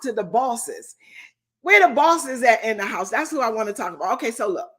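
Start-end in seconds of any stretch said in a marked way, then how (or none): 1.6-3.1 loud rallying call to the crowd. Real, not acted. Coach to her online audience of boss ladies, calling out. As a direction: call out to rouse the room, louder.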